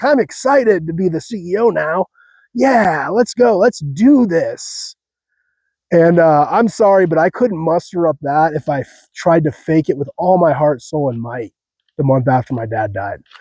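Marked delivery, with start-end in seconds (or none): 0.0-5.0 acted, bubbly, giddy, overly happy, drawn-out excitement. Describing the new CEO's tone, imitating her: giddy excitement. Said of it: "She has this very tone where she's like".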